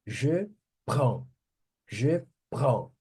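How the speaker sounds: "prends" ending on the nasal vowel; silent final consonants. Shown as a demonstration. Teacher showing not to pronounce the ending, French demo. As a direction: say "Je prends", dropping the written d and s. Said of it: "Não pronuncia o final".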